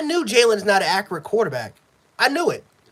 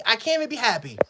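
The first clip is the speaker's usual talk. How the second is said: softer, dropping into defeat; deflated; 5 dB quieter, faster than usual. Real, not acted. Fan to viewers, worn out by the team, deflated and softer. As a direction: let it sink out of you, beaten.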